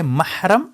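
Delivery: محرم said as mahram, with a rising end; second of three words. Shown as a demonstration. Teacher contrasting three look-alike words, saying mahram. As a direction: say محرم as mah-ram, slowly. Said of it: "ویسے یہ تین لفظ ہے".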